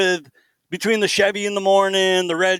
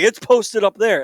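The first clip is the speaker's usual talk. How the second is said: higher, slow mock call; retold yelling lady; 5 semitones higher, slower than usual. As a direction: imitate a neighbor insisting from across the street. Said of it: "park lady yelling at us".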